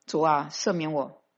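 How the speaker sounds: soft, hushed confession to the Lord; a believer confessing to God, softly and humbly; humble prayer. Acted. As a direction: pray it quietly, yielding judgment to God. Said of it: "你要说".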